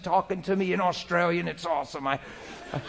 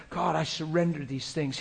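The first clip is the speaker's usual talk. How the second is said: private prayer; 8 dB quieter than usual. Shown as a demonstration. Preacher shows a surrendering prayer, quiet private praying. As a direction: pray quietly as if alone. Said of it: "Here's how it sounds like when I'm alone".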